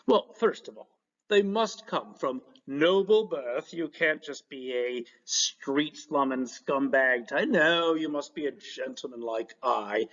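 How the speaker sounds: slow, lofty put-on courtier voice; snobbish courtier. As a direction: lecture the class like a haughty gentleman of the court.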